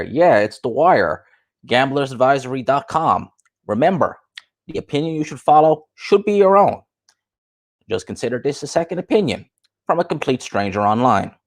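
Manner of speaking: lightly mocked advert endorsement; a hint of an ad voiceover; The Wire. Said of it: "you just see The Wire there".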